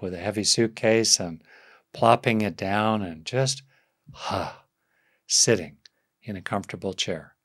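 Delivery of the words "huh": sigh of relief. Shown as a demonstration. Acts out dropping a heavy suitcase.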